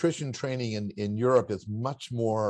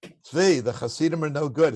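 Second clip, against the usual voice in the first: imitated Polish father, a bit raised; gruff Polish accent; 4 semitones higher than usual. Father dismissing the Hasidim to his son, gruff Polish accent. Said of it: "in his gruff Polish accent".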